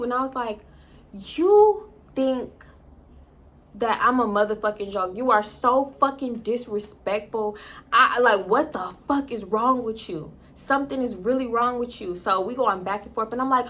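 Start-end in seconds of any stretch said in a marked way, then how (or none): 1.1-12.2 retold confrontation, stretching the angry words; indignant attitude. Telling off her boyfriend when he hit her up, with attitude. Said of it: "I had an attitude".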